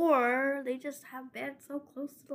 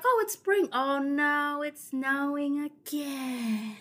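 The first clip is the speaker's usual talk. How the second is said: mock dismay; 5 semitones higher, much slower than usual. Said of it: "You'd be like".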